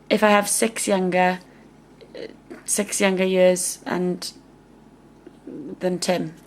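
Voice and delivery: halting, with long pauses mid-phrase; stumbling over words. Real, not acted. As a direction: lose the thread and restart the phrase haltingly. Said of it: "I don't know why I'm stuttering over this".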